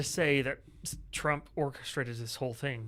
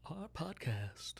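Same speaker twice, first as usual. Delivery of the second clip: weird voice; 4 semitones higher than usual. Pretend. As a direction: open the show in a silly weird voice. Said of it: "I will talk in a weird voice".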